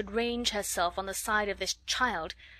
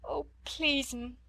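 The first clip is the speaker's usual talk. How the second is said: higher maid voice breaking into tears; tearful plea; 5 semitones higher, slower than usual. A narrator's reading. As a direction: plead through fresh tears. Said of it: "She burst into fresh tears".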